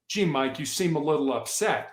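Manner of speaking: soft, tentative concern; gently name the feeling, a bit detached; mild sympathy. Shown as a demonstration. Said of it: "I've totally missed what you're saying".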